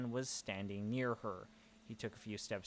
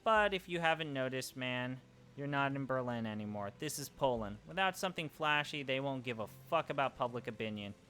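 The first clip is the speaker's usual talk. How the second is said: said loudly. Acted. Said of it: "I said loudly".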